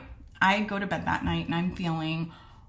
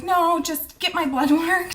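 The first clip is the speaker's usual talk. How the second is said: laughing refusal; 10 semitones higher, 7 dB louder than usual. Retold or imitated. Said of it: "I was like".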